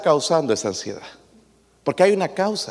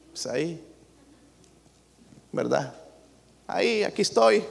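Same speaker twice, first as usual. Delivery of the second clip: respuesta desganada; 10 dB quieter than usual. Retold or imitated. Imitating anxious people's answer.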